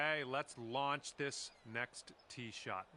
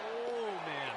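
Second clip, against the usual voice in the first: surprised; 9 semitones higher, 3 dB louder than usual. Real, not acted. Near miss on the shot.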